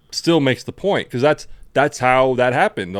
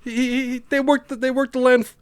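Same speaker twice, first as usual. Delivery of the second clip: mocking sarcastic voice; 11 semitones higher than usual. Mocking the movie's sanitized version.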